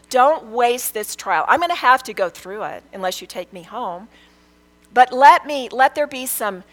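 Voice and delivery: pleading with God, pitch lifted on the key phrases; earnest prayer. Retold or imitated. Speaker retelling her daily prayer through the trial, earnest pleading. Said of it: "Every day I would pray".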